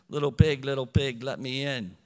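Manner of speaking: low, growly wolf voice at the door; lightly voiced storybook wolf; big bad wolf.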